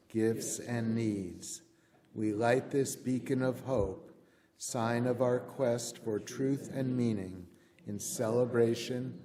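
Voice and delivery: measured responsive reading, slowing on the paired phrases; liturgical reading. Acted. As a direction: lead the congregation through the words. Leads unison liturgical response.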